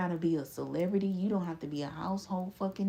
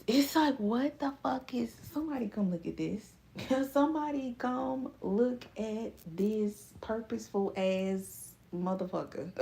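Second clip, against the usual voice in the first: excited exclaiming; 3 semitones higher than usual. Acted. Stunned by a purposeful person.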